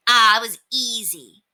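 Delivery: high, cocky brag; boasting. Acted. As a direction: toss it off like it was nothing. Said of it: "boasted Scooter".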